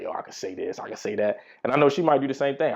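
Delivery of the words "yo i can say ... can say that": muttering to himself. Retold or imitated.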